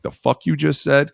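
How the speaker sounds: half-mocking outrage at an insult; angry challenge. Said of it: "somebody was like".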